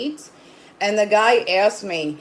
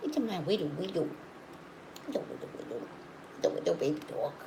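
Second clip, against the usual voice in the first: cooing to pet; 13 dB quieter, much faster than usual. Real, not acted. Owner fussing over her dog, soft cooing. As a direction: coo quietly to your little dog.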